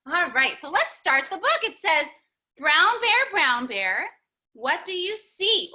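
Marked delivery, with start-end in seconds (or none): 2.6-5.7 put-on reading to children. Reads the picture book to kids.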